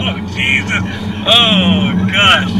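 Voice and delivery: high, loud gasping surprise; startled exclamation. Real, not acted. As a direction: yelp as you're pinned to the seat. Car launches with sudden acceleration.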